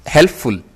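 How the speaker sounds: हेल्पफुल in two parts, हेल्प then फुल; split syllables. Shown as a demonstration. Teacher testing one mouth opening, हेल्पफुल split before फुल. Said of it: "बोल सकते हो आप एक बार मुंह खोल के".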